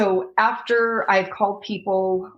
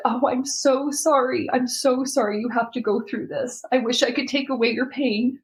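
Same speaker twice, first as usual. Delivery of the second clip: tender comfort; 5 semitones higher than usual. Retold or imitated. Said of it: "she said".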